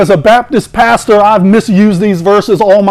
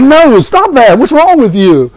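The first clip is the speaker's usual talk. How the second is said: scolding parent; 4 semitones higher than usual. Retold or imitated. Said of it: "your mom or dad ... they're like".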